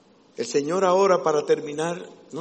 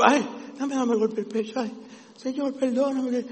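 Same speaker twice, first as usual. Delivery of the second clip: mock tearful plea; 7 semitones higher than usual. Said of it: "No es llorando".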